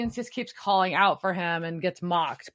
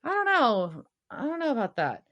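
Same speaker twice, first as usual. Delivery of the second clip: lightly voiced Castiel, higher and fast, unsure; dithering Castiel; 7 semitones higher, much faster than usual. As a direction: waver as if half paying attention. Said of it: "Gas like".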